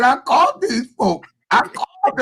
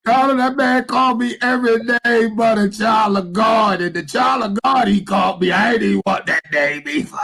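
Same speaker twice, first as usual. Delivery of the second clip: laughing till crying. Real, not acted. Laughing so hard he's crying.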